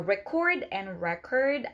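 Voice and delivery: "record and record", first stressed on the end, second on the start; verb and noun contrast. Shown as a demonstration. English teacher contrasting two words for learners, verb and noun stress. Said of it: "are two different things".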